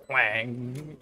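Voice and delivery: single drawn-out twang noise; imitated twang. Streamer dropping in a twang for laughs, imitated twang. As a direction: let one twang ring out. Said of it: "The power of the twang".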